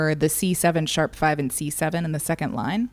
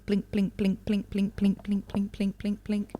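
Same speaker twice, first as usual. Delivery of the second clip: soft, light repeated "plink" like piano notes; a quiet, even chain of "plink" sounds; 3 semitones higher, 5 dB quieter than usual. Shown as a demonstration. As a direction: tap out each "plink" gently like a piano key. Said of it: "this is mimicking the piano".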